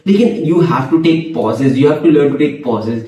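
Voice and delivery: slow, spaced-out words; slow with pauses. Shown as a demonstration. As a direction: model the pauses you preach. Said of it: "pause लेकर आस्ते आस्ते थोड़ा gap रखकर बात करो".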